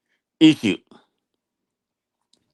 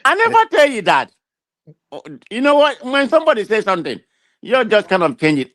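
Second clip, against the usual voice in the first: high-pitched, protesting rebuttal; real exasperation, pitch jumping up; indignant denial; 8 semitones higher than usual. Real, not acted. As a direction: push back hard at being misquoted. Denying words put in his mouth.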